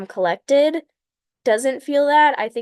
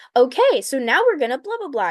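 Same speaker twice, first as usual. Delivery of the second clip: nervous, mock jittery, lively, energetic delivery; 4 semitones higher than usual. Showing how speeches sound once nerves kick in: imitating own nervous energetic delivery. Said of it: "when I start getting nervous".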